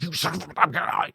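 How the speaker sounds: high, strangled, slow curse; mock exasperation. Viewer getting mad at the film, strangled exasperation. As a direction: squeeze out an unfinished curse, frustrated. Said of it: "I was just getting mad".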